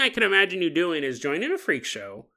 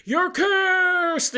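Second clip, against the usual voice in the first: put-on higher and higher, a cursing old crone's cry; mock yell; 9 semitones higher, much slower than usual. Old lady yelling a curse at the fleeing pig thief, hammed-up shriek. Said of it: "the old lady's yelling at you".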